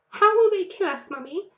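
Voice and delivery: small voice full of fear; frightened child. A narrator's reading. Fox cub asking his mother, frightened. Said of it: "huge with fright".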